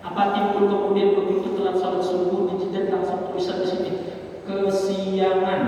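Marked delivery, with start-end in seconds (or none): 4.4-5.6 slow. Pretend. Imagined word stamped on forehead.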